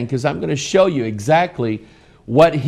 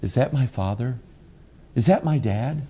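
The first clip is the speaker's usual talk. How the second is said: softer, lower, disbelieving son voice; imitating his son; 4 semitones lower, 6 dB quieter than usual. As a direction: play the son rolling his eyes at dad. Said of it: "he just looks at me and goes".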